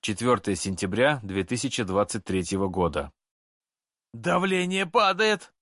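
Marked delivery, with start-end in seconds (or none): 4.1-5.5 high, slow panicked yell; hysterical shout. Acted. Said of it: "истерично закричал доктор".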